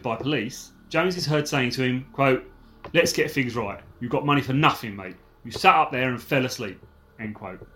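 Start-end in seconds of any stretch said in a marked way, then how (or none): 2.9-6.8 proper Cockney, th turned to f; Cockney accent. Shown as a demonstration. Podcaster re-reading a bugged gangster quote on request, Cockney accent. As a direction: read it like a London villain in Cockney. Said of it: "in a proper Cockney accent".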